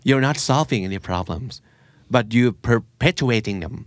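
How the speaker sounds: every English word drawn out very slowly; host reads the English line slowly for learners; slow teaching read. Shown as a demonstration. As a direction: dictate it slowly so listeners can catch it. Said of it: "perpetuate ก็คือ".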